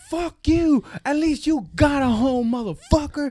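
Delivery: high-pitched retold outburst; imitated furious retort at normal volume; mock angry comeback. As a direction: hurl it back in a high, indignant voice.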